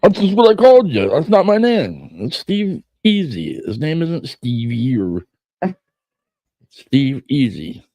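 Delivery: high-pitched, hammed-up name protest; mock indignant. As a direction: act out an indignant comeback in a high voice. Acts out an imagined name quarrel.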